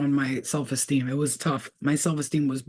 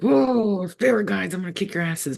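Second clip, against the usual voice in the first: mock exasperation; 4 semitones higher than usual. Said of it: "I'd be like".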